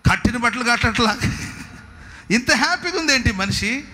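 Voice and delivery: puzzled tormentors. Acted. Voices tormentors puzzled by her happiness.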